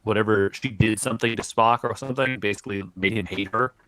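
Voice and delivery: breaking-up mic audio; choppy, glitching connection; scrambled voice. Real, not acted. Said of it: "You are breaking up so bad".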